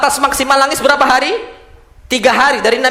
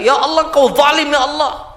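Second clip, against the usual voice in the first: mild mock wail of protest to God; understated imitation of an aggrieved lament; acted lamenting cry; 4 semitones higher than usual. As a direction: plead as if imitating a bereaved mourner. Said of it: "menyuruh dengan seruan-seruan jahiliyah".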